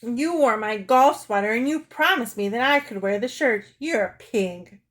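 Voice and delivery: loud, aggrieved mock bawl; lightly acted sobbing protest. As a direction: complain tearfully, slowing at the end. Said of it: "She sobbed".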